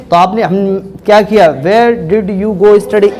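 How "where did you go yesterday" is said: "Where did you go yesterday?" spaced out word by word. Shown as a demonstration. Teacher drilling students, each word said separately. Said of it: "अलग अलग बोला".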